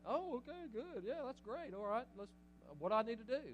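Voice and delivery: high, bright eager yes; eager agreement. Retold or imitated. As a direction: respond like a thrilled convert. Imagined eager sister reply.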